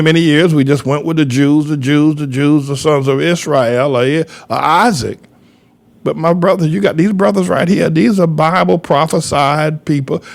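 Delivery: usual speaking voice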